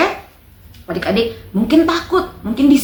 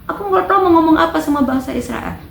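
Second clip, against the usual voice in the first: pleading prophet; 9 semitones higher than usual. Retold or imitated. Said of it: "Yeremia bilang".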